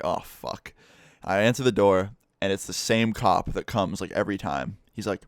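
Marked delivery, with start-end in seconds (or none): 0.0-0.7 breathless whisper of dread. Retold or imitated. Hearing the expected knock at the door, whispered dread. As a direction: mutter it under your breath as the knock comes.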